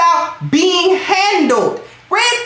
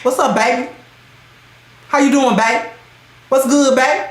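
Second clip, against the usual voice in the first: mock bro-style greeting to a partner; low, casual dude talk; masculine buddy tone; 4 semitones lower than usual. Shown as a demonstration. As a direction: greet your sweetheart like one of the guys. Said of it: "I don't talk to him like this".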